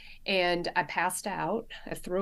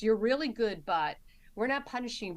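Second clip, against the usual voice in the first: a hint of the manager's voice, only a little raised; lighter imitation of the boss; 4 semitones higher than usual. Nurse repeats the manager's words, lightly imitating the boss. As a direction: retell the praise almost in her own voice. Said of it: "I heard this".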